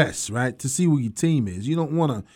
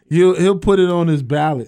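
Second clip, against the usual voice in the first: laughing; 2 semitones higher, 4 dB louder than usual. Real, not acted. Joking, laughing.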